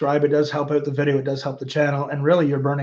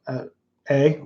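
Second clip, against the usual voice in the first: Canadian eh. Shown as a demonstration. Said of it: "There's my accent".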